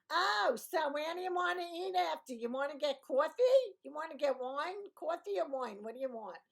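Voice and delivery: loud, high Brooklyn yap; thick Brooklyn accent. Acted. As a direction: put on an exaggerated Brooklyn accent. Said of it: "I don't sound that Brooklyny compared to most people".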